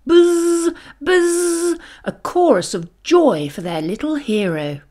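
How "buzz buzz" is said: high buzzing bee sound. A narrator's reading. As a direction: buzz like a happy bee. Hive hum imitated.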